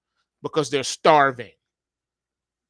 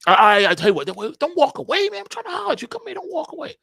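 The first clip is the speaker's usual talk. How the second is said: pleading hustler; 12 semitones higher, faster than usual. Acted. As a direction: beg him not to leave. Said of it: "you see hustle man out there".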